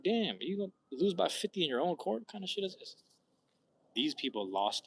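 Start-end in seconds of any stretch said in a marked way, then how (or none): 0.0-3.0 exasperated outburst. Retold or imitated. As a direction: rant in disbelief at the loss. Outrage at home blowout loss.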